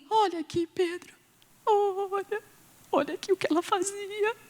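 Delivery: high, pleading widow voice; lightly voiced grieving widows showing her work; mock weeping widows. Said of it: "chega diante dele e fala assim". (viúvas chorosas mostrando a Pedro, tom agudo e suplicante)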